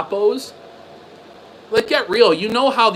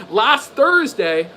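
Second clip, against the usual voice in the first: incredulous; 3 semitones higher, much slower than usual. Real, not acted. Repeating a suspicious claim.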